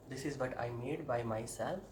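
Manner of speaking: very slow, proud announcement; slow reveal. Real, not acted. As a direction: present the haircut slowly.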